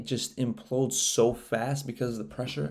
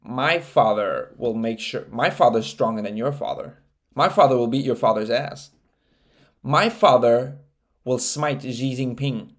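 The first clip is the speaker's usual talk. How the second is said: mock whiny boast; 4 dB louder than usual. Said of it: "now you're talking about".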